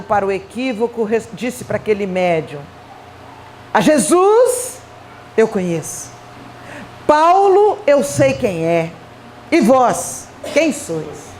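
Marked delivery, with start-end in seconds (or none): 3.7-11.3 lightly voiced solemn challenge with long pauses; confronting spirit. Spirit from Acts challenges the medium, slow and declamatory. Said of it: "em que aquele espírito".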